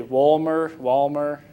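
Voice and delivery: Wolmer, Walmer with English W, from the throat; throaty American variants. Shown as a demonstration. Showing other families' versions of the name, Wolmer and Walmer from the throat. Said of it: "also spoken from the throat".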